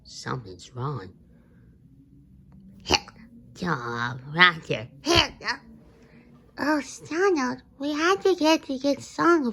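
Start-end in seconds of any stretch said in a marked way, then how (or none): 2.8-5.3 talking through hiccups. Acted. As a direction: hiccup between the words. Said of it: "you got the hiccups".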